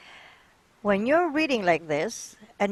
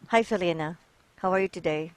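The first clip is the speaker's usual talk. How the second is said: flat, lifeless greeting with no energy; monotone; 3 semitones lower, faster than usual. Shown as a demonstration. Teacher showing a student a monotone greeting. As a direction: say it dull and unvaried, like you don't care. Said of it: "So that's being monotone".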